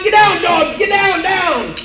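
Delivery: high-pitched command to dogs; mock yell. Caregiver yelling at dogs on the bed, mock yell. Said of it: "I'm yelling".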